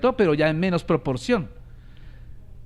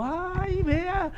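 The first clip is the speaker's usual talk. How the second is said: mock amazed crowd; 11 semitones higher than usual. Congregation's excited reaction imitated.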